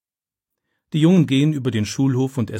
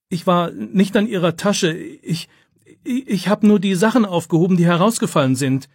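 much higher, breathless denial; panicked protest; 8 semitones higher, 3 dB louder than usual. A narrator's reading. Boy defends himself to the angry teacher, much higher and panicked. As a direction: plead your innocence in a rush of fear.

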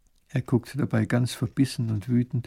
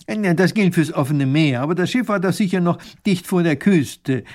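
learned professor; 6 semitones higher, 7 dB louder than usual. Acted. Professor objects to the sailor.

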